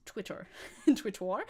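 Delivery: "Twitter" in a put-on German accent; trying out German-accented "Twitter". Shown as a demonstration. Streamer joking about being good at accents, German accent. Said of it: "I'm so good at accents".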